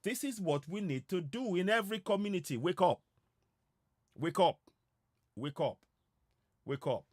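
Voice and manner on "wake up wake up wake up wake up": loud, urgent wake-up call. Real, not acted. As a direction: rouse the audience. Urging listeners to wake up.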